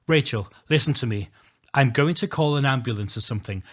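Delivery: urgent. Acted. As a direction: speak up urgently to get through to her. Urgent call to dying friend.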